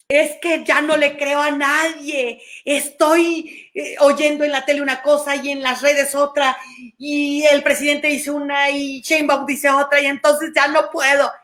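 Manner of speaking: overwhelmed complaint. Retold or imitated. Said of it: "emoción de desamparo".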